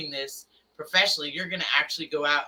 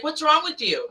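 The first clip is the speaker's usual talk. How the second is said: mock annoyed Robbie; 11 semitones higher than usual. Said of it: "he's like".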